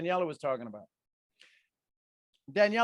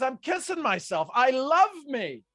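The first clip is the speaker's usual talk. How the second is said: self-loving; 7 semitones higher, 7 dB louder than usual. Retold or imitated. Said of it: "He goes".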